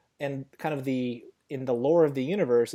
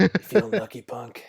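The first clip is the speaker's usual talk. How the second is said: higher, louder taunt dropping on the last word; mock tough-guy threat; 6 semitones higher, 7 dB louder than usual. Answering friends' joke punch threats, mock tough guy. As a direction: play at daring them to fight.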